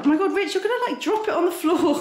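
high, laughing warning; laughing alarm. Real, not acted. Wife laughs at husband melting down over spicy lamb. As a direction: laugh while warning him not to drop it.

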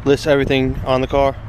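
words against gusts of wind; wind noise. Real, not acted. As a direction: outdoors in the wind, noisy background. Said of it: "Sorry for the wind noise".

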